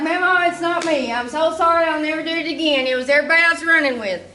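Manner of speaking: hammed-up begging to Mama; frantic pleading. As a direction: talk your way out fast to Mama. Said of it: "I was like".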